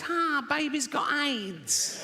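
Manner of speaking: high, drawn-out comic jeer; gleeful mock crowing. Comic admitting his only punchline, gleeful high mock crowing. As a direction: crow it high and slow, hammed up.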